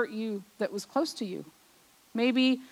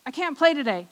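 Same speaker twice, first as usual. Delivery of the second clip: casual; 4 semitones higher than usual. Retold or imitated. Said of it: "she just very casually said".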